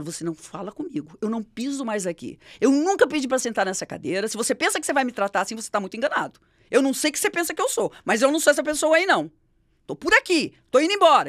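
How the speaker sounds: retold scolding that swells into a shout; retold angry confrontation. Boss confronting her after show.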